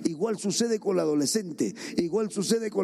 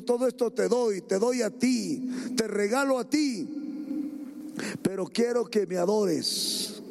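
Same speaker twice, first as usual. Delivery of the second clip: devil tempting; 3 semitones higher than usual. Retold or imitated. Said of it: "Y le dijo".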